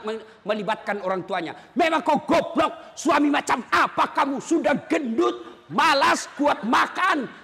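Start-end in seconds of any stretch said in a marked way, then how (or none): 1.8-7.3 mock cursing wife. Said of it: "tidak boleh maki-maki".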